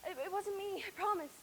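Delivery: tearful, stammering sorry; crying apology. Acted. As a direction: sob out the apology.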